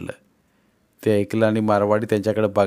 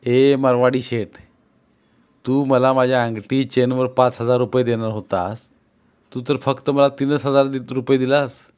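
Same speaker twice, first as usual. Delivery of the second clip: villager confronting. Acted.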